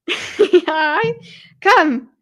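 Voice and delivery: high, loud greeting to a pet; calling the dog. Real, not acted. Speaking to Daisy on the lap, calling the dog. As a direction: coax the dog over with a high, laughing hello.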